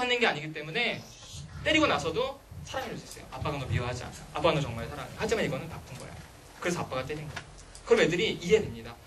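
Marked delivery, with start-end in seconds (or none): 3.3-7.4 softer, lower, tender reassurance; reassuring father. Retold or imitated. Father telling his child he still loves him, soft and reassuring. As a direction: comfort the child that he's still loved.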